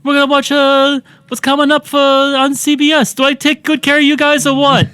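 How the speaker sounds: hammed-up teen idol hosting; mock Scott Baio host. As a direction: sell the cartoon previews like a smarmy host. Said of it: "he says".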